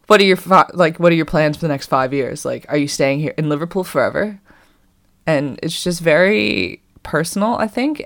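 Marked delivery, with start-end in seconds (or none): 0.1-4.4 "What are your" blurted loud, then settling; mock nosy question. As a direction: ham up a prying stranger, loud at first. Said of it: "you would never be like".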